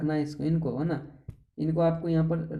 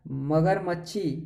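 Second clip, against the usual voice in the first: drawn-out मगरमच्छी, said slowly as if doubtful; teasing wrong answer; slower than usual. Shown as a demonstration. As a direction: stretch मगरमच्छी playfully. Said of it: "कह रहे नहीं है।". (चिढ़ाते हुए गलत उत्तर)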